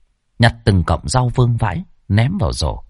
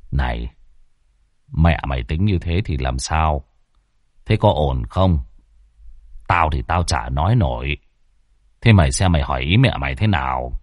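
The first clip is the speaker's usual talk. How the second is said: put-on fretful old father; 7 semitones lower than usual. A narrator's reading. Old father asks his son.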